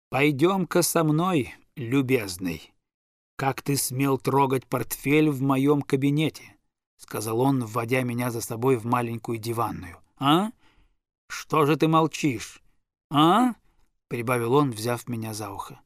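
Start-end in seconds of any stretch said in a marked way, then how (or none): 0.1-6.5 slow, stern summons; a hint of a strict father, slowing each word. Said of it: "строго сказал". 10.2-13.5 raised, loud demanding prods; angrily pushing for an answer; father pressing. Acted. Father pressing the silent boy.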